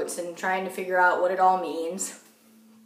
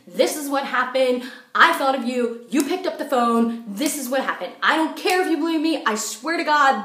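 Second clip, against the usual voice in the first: insistent, raised-voice protest; mild retold yelling; 3 semitones higher than usual. Caller swearing to giggling friend, half-yelled insistence. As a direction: press every point, demanding to be believed. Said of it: "on the phone yelling with her".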